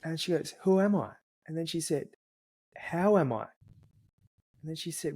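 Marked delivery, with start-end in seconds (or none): 0.6-1.1 put-on higher, a bit louder child asking; dad imitating his daughter asking in a higher voice; little girl voice. Father voicing his little daughter. 2.8-3.5 dad imitating his daughter asking in a higher voice; little girl voice. Father voicing his little daughter.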